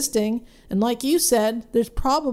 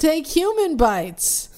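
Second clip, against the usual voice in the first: slow, higher mock yell; imitated yell; 5 semitones higher, slower than usual. Imitating the woman in a play's commercial, mock yell. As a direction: draw it out like a hammy line from a commercial. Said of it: "this woman yells out".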